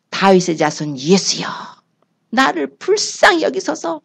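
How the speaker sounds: pleading. Acted. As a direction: beg humbly, drawing each word out. Blind man begging for mercy.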